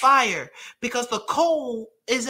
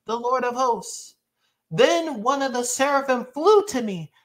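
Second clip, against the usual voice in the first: measured, declamatory Bible reading; scripture reading. A narrator's reading. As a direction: proclaim the passage to a congregation. Reads scripture to congregation.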